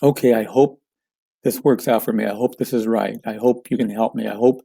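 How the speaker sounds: doubtful hoping. Shown as a demonstration. A stressed client unsure you can deliver, doubting. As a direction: let the doubt leak into each hope. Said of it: "the way it would sound would be".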